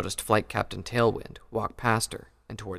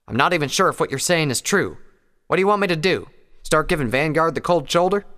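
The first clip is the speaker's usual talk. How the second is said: higher, indignant farm mare; Applejack voice; 7 semitones higher, 7 dB louder than usual. Acted. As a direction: push back, rising indignation. Applejack argues back.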